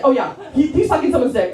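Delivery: lightly acted paranoid certainty; comic suspicion, calmer and nearer normal pitch; mild mock paranoia. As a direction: settle into a mock-paranoid conclusion. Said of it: "I was so paranoid".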